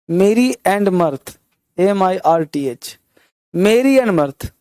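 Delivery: merry and mirth drawn out very slowly; slow drill. Shown as a demonstration. Teacher slowly drills the phrase for students, very slow. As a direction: stretch each word for the class to copy. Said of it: "teacher drills the phrase slowly".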